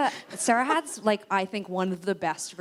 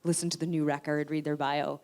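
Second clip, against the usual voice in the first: sarcastic publicist; 3 dB louder than usual. Retold or imitated. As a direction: sweetly shut the call down.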